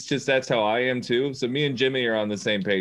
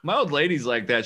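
usual speaking voice

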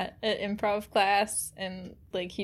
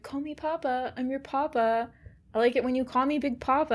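mock Doctor Brennan; 3 semitones higher than usual. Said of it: "It's like fucking Doctor Brennan".

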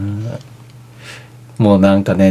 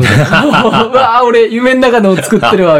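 laughing disbelief; 10 semitones higher, much slower than usual. Retold or imitated. Laughing at his own dream.

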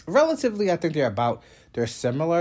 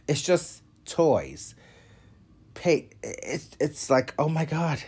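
whisper; 5 semitones higher, slower than usual. Real, not acted. Overwhelmed by baby stuff.

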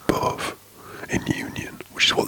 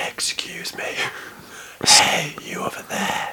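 stage whisper; slower than usual. Retold or imitated. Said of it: "A stage whisper".

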